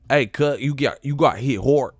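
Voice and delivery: exaggerated Cali twang on "hard"; Cali accent. Shown as a demonstration. Calling to a homie, Cali accent. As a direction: play up the Cali "hort" sound. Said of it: "that's how we say in Cali".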